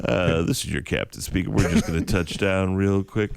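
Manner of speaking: lightly voiced relaxed pilot; a hint of a laid-back captain on the intercom; calm captain voice. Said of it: "they have the calm captain voice".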